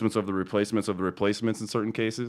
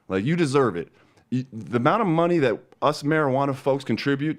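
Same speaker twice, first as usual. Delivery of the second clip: higher, heated tirade at the city; angry rant; 3 semitones higher than usual. Real, not acted. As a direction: let rip at the clerks, fed up. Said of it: "End of rant".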